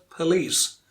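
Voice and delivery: police said with weak first syllable, stress on the end; correct pronunciation demo. Shown as a demonstration. Teacher gives the example word, correctly stressed on the second syllable. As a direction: say police as puh-LEECE. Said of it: "Most of us know the correct pronunciation".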